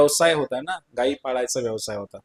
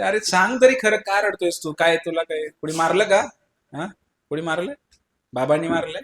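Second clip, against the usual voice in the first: worried mother; 3 semitones higher than usual. Acted. Mother anxiously questioning her crying little son, high and pleading. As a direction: coax it out of him like an anxious mother. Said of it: "आई म्हणते".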